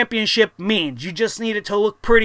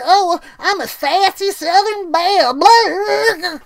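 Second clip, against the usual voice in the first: much higher, slow, whiny mock Southern belle; 7 semitones higher, slower than usual. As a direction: sneer through a simpering belle voice. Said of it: "I hate this Southern Belle bullshit".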